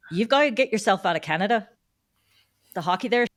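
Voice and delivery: a hint of badly imitated Irish; bad Irish accent. Irish umpire manager advising her to leave Canada, bad Irish accent. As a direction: lightly mimic an Irish mentor's accent. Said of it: "in my worst accent".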